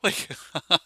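high, loud, laughing shock; shocked disbelief. Retold or imitated. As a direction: shout it in stunned disbelief. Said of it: "I was like".

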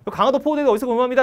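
high, loud duty report; military reporting shout. Acted. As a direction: report like a tense junior marine. Junior reporting to senior marine. (군대식으로 크게 보고)

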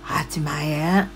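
breathless whispered disbelief; surprised whisper. Real, not acted. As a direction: whisper it slowly in shock. Viewer says glasses cost 80,000 yen.

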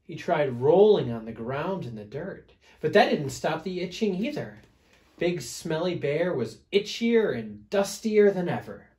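put-on animated read-aloud to small children; storybook narration. A narrator's reading. Reader telling children about an itchy bear, lively storytelling. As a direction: tell it with stressed key words and swooping pitch.

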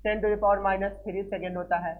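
slow, word by word, for students to write down; slow dictation. Shown as a demonstration. Teacher dictating unit values to students, slow and deliberate. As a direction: dictate each word slowly and clearly. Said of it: "देखो ध्यान देना".

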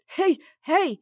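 put-on trying a kid's voice. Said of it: "Ciekawe, czy mi się uda".

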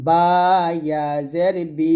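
final "বি" held as a long ee; recite, sustaining the ee of "বি"; drawn-out vowel. Shown as a demonstration. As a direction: stretch "বি" out for one alif. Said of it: "এক আলিফ পরিমাণ টেনে পড়বো".

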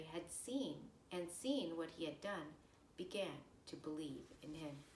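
measured lector-style scripture reading; gospel reading. Acted. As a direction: read it like a lector at Mass. Reads the gospel passage aloud.

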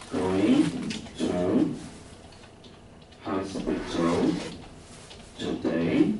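each word drawn out slowly for students to repeat; slow read-along. Shown as a demonstration. Teacher leading the class through the sentence, slowly. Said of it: "各位念看看啊".

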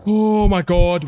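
high, loud cry of shock; shocked exclamation. Real, not acted. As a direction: cry out after a near miss. Nearly died in game.

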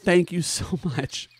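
slow thanks broken by a laugh. Real, not acted. Streamer thanking Naku, laughing while moved. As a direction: laugh through the thank you.

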